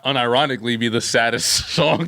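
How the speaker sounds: high, drawn-out words broken by laughter; laughing while talking. Real, not acted. Joking to friends about the saddest wake song, laughing through it. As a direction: crack up mid-sentence.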